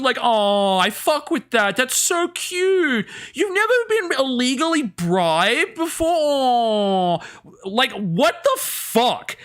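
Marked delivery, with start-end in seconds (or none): 0.2-7.2 sneering imitation of cutesy gushing; mock cutesy. Streamer mocking a cutesy streamer, mock cutesy gush. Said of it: "What is with that cutesy".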